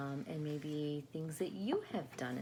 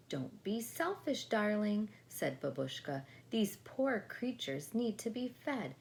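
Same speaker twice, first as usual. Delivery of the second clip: higher, firm but fond; a touch of grandmotherly scolding; gentle scolding grandma; 6 semitones higher than usual. Acted. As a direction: chide like a kind grandmother.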